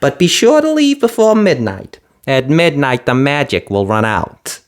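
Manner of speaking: high brisk fairy voice; quick and businesslike; fiery fairy. A narrator's reading. Fiery fairy asking Cinderella for mice, brisk.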